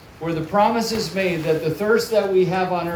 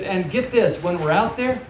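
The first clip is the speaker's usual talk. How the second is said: put-on higher, building excitement for the kids; lightly acted mom with good news; excited mom; 5 semitones higher than usual. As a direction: voice a mom revealing a treat.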